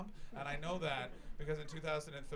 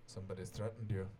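low, lightly attempted Scottish accent; badly faked Scottish security guard; 5 semitones lower than usual. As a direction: have a rough go at Scottish. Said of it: "I know I don't do a good Sc-, Scottish accent".

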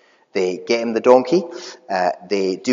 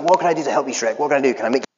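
excited Shrek donkey; 3 semitones higher, much faster than usual. Retold or imitated. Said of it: "He's so excited".

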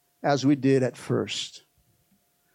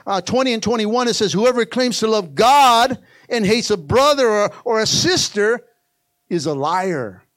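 raised, emphatic verse reading; forceful scripture preaching; 6 semitones higher, 7 dB louder than usual. Real, not acted. Preacher reads First John to the church, forceful. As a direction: press the verse on the congregation.

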